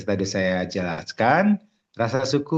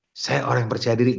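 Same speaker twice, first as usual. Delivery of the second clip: rushed bare affirmation; 2 semitones higher, faster than usual. Shown as a demonstration. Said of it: "Nggak kayak gitu".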